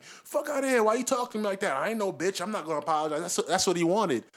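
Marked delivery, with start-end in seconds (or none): 0.0-3.2 mock tough guy. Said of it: "to be like".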